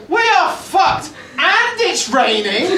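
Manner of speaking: high slow shout of doom, laughing at the end; hammed-up gloomy bulletin yelled out; mock doom shout. Comic mocking the Welsh news, shouting slowly. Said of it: "They have to go".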